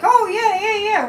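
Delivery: high, loud mock glee; mock gleeful Trump. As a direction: mimic the gloating yes-man. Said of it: "he was all like".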